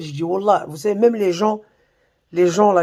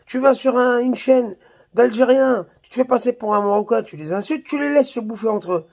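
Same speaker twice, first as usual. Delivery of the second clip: higher, insistent quoted speech; pitched-up retelling of someone's spiel; quoting a man in a video; 5 semitones higher than usual. Retold or imitated. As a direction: relay his spiel in a raised, listing tune. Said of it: "qui disait".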